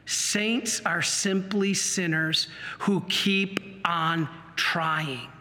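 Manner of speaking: slow, weighty maxim; measured delivery with deliberate pauses; solemn repetition. Real, not acted. Repeats the saying for weight.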